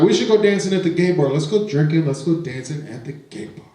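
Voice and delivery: high, fast and eager, lightly voiced; drunk excited friend. Drunk friend urging everyone to the gay bar, high excited voice. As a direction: pitch it up like a tipsy girl begging to go out.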